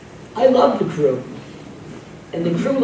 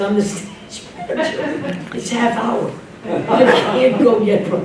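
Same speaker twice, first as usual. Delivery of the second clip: higher, slow mock old man, dragging out the words; old stage manager; 4 semitones higher, slower than usual. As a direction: play a fussy old stage manager, very slowly. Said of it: "And the guy was old".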